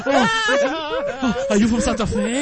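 mock Asian accent. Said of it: "using an Asian accent on the show".

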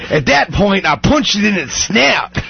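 failed attempt at an Australian accent; bad Australian accent. Host quoting a crocodile victim, poor Australian accent. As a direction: try an Australian accent and miss it. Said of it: "I'm no good at accents".

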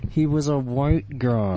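slow, jaw shut tight; through clenched teeth. Shown as a demonstration. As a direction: push it out through locked teeth. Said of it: "everything is funnier said through clenched teeth".

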